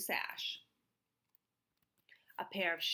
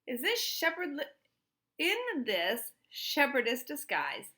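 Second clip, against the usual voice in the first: higher, louder museum man's voice, slowing on disguise; lightly voiced fussy guard, raised pitch; Mister Dart; 6 semitones higher, 5 dB louder than usual. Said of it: "Mister Dart said".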